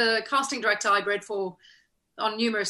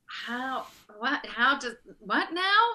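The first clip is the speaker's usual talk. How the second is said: mock bafflement; slower than usual. Actress faced with alien Goa'uld dialogue, comically baffled. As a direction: stumble between questions, baffled.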